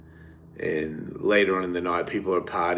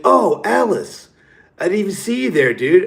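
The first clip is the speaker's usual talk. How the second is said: much higher, louder sheepish greeting; hammed-up innocent bro voice; mock fake surprise; 10 semitones higher, 7 dB louder than usual. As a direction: imitate a guy caught out pretending. Guy caught out, fake innocence.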